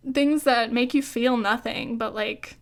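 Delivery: talking through the hiccups; hiccuping mid-sentence. Real, not acted. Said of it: "I'm still hiccuping".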